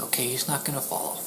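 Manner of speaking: hushed, letting it go; murmured to himself about the cat; whispered aside. Retold or imitated. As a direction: whisper it to yourself. Quietly giving up on cat.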